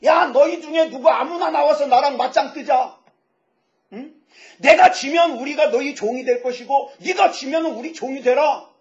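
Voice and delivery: Goliath's challenge, mildly hollered; mock threatening yell. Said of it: "소리를 지르면서 이스라엘을 협박해요".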